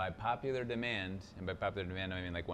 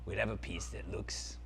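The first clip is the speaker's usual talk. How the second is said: dark lord; 3 semitones lower than usual. Acted. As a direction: savour every word like an evil prince. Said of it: "Zaltar, Prince of Phantasm".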